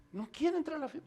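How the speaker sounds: lightly acted servant passing on news, quietly; understated, falling statement; hushed report.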